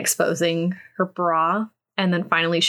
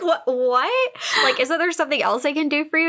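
protesting man; 8 semitones higher than usual. Retold or imitated. He protests her demand.

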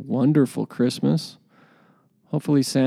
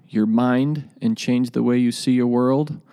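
booming motivational speech. Acted. Podcast intro over music.

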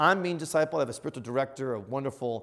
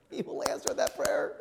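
whispered assurance. Real, not acted. Repeated as intense whisper.

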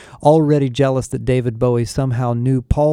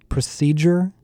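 disbelief; 5 semitones higher than usual. Acted. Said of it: "Becky asked in disbelief".

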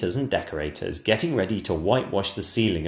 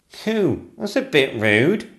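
offended footman; 7 semitones higher, 5 dB louder, slower than usual. Acted. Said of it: "thought the footman".

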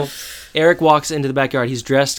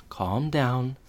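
calm reassurance; 6 dB quieter, much slower than usual. Retold or imitated. Feeney calming panicked Eric.

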